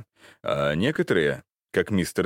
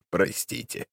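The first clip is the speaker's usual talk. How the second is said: put-on creaky old man; 4 semitones higher than usual. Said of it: "проскрипел старик".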